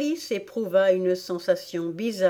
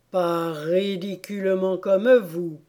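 slow Dormouse retort; slow, plodding disdain; scornful Dormouse. Acted. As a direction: drag out the put-down.

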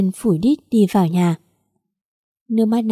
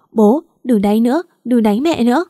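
higher-pitched, mildly panicked plea; alarmed pleading; 3 semitones higher, 4 dB louder than usual. Acted. Daughter-in-law begs father not to hit mother, alarmed pleading. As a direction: beg them to stop, a touch of alarm. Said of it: "Cái Duyên thấy vậy hốt hoảng".

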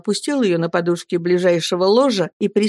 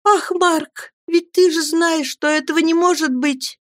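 near-moaning lament; 10 semitones higher than usual. Acted. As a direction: let it break out as a groan of grief. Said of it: "почти стоном вырвалось".

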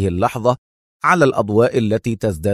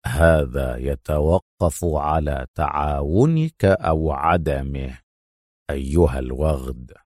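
chillingly cold; 8 semitones lower, 4 dB quieter, slower than usual. A narrator's reading. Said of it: "ببرود يثير الرجفة".

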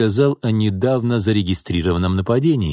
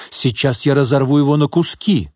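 higher, heated threat; a moderately raised, outraged cry; 6 semitones higher, 3 dB louder than usual. A narrator's reading. Old woman threatens the scoundrel, crying out in mild fury. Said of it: "крикнула Тамара".

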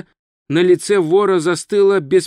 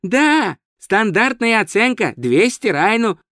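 high, matter-of-fact answer; innocent tourist; 6 semitones higher than usual. Acted. Tourist gives wizard the sum, high innocent voice. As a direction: answer brightly unaware, pitched up.

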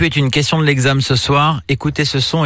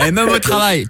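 laughing; 8 semitones higher than usual. Real, not acted. Laughs at the reply.

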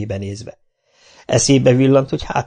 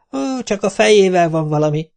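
repeating; 8 semitones higher than usual. Acted. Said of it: "ismételte".

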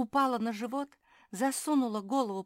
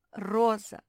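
ordinary delivery

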